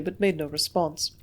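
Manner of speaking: plain reading voice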